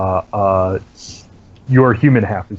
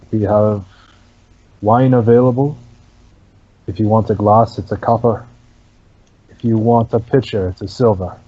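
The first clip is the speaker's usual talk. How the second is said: lightly voiced hollow barkeep, halting pauses; dull hollow monotone. Soulless barkeep answers a customer at the bar, dull monotone. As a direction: drone it out dully, phrase by phrase. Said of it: "dull, monotone, hollow voice".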